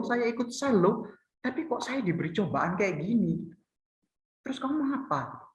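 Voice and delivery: petulant churchgoer grumbling at God; whiny complaining believer. Retold or imitated. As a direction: list your good deeds to God in a mock whine. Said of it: "seringkali kita juga begitu ya".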